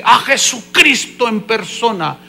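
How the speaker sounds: lightly mimicked announcer; presenter's hype. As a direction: present him like a star guest. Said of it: "el que lo estaba presentando".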